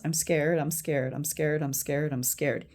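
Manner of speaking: run-on repetition, fading slightly; repeated mantra. Shown as a demonstration. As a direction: demonstrate a tapping mantra, understated. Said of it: "what I did in this case was".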